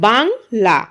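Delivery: "বাংলা" slowed into two beats, "বাং" and "লা"; pronounced in syllables. Shown as a demonstration. Teacher asking pupils to notice the pronunciation, in two beats. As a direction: separate "বাং" from "লা". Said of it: "যেমন আমরা উচ্চারণ করছি".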